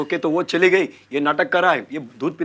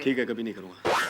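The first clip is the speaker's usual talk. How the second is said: meek promise; 7 semitones lower, 9 dB quieter than usual. Acted.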